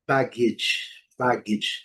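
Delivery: "baggage" with a short "idge" ending. Shown as a demonstration. Teacher showing the second word, "baggage" ending in "idge". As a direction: model "baggage" carefully, first syllable strong. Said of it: "vai pronunciar esse som".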